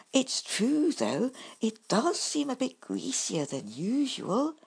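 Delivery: high, hurried little apology; apologetic badger. A narrator's reading. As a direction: fluster over the mishap. Bumble voiced.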